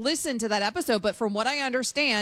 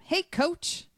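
higher-pitched imitation of eager fans; lightly voiced fan question; 4 semitones higher than usual. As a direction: call the question like a hopeful fan. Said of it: "the fans asked him".

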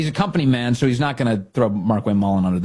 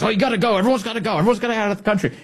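higher, mocking Mullin voice; 9 semitones higher, much faster than usual. Host mimics Mullin's repeated posts, higher and mocking. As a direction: hammer it like a zealous poster. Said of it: "He goes".

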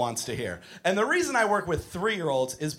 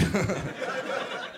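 short laugh after your own line; chuckle; 7 dB quieter than usual. Real, not acted. Laughs after admitting his coping trick.

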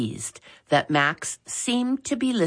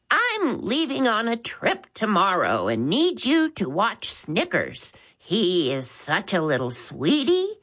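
put-on elderly caller; 6 semitones higher than usual. Old caller Maud Bagwell.

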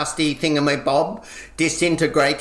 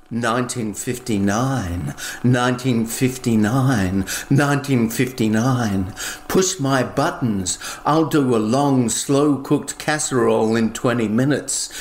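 lower, sultry machine voice; seductive appliance; 3 semitones lower than usual. Acted. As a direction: purr the model number like a come-on. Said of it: "She repeated".

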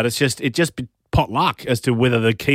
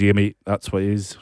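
a light put-on Scottish-ish accent, barely shifted; lightly imitating a British mate in a loose Scottish accent; vague Scottish accent; 3 semitones lower than usual. Host mimics English mate at the pub, light Scottish-ish accent. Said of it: "not sure what accent I'm doing here".

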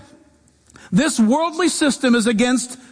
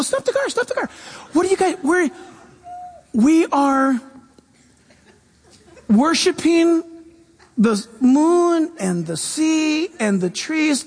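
Shirley MacLaine; 3 semitones higher than usual. Retold or imitated. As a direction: squeal it like a thrilled hippie. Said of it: "Shirley MacLaine would go".

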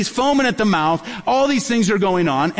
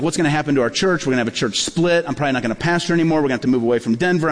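retold panic; 4 semitones lower, faster than usual. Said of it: "then I was like".

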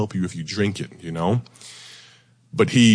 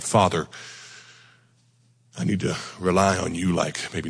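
humble, hushed appeal to God; spoken prayer. Real, not acted. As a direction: pray aloud in a subdued, even voice. Leads the congregation in prayer.

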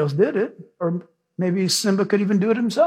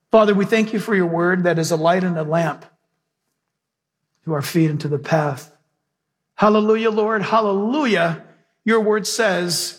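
raised, fervent prayer voice over music; closing prayer; 2 semitones higher than usual. Acted. Pastor praying over his church at the sermon's close, fervent. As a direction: pray over the church with rising fervor.

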